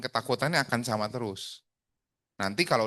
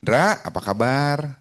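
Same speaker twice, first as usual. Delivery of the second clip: drawn-out, slow how-are-you; stock greeting; 3 semitones higher, 4 dB louder, slower than usual. Shown as a demonstration. Coach showing how not to open a call, drawn-out stock greeting. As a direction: stretch the name into a dull stock opener. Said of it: "nggak akan nanya gini".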